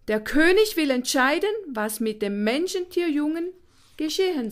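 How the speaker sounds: high, piping and apologetic; a tiny bird sorry to deliver bad news; apologetic little bird. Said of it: "Seine Stimme klang, als täte es ihm leid".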